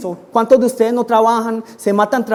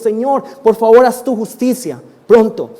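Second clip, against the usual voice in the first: louder, insistent appeal to God; raised-voice preacher's plea; urgent prayer; 3 semitones higher, 5 dB louder than usual. Acted. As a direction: plead firmly with God for action.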